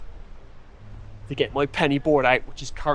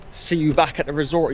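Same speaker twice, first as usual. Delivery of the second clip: mock quote. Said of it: "he says".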